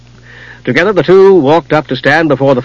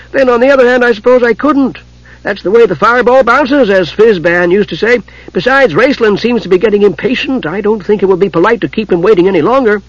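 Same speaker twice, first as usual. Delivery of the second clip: kender voice; 8 semitones higher than usual. Acted. Tas's voice in the story.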